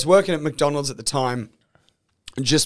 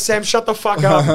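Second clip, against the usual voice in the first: louder, higher exasperated snap; annoyed coworkers; 7 semitones higher, 4 dB louder than usual. Retold or imitated. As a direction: tell him off, half laughing. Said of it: "everyone would be like".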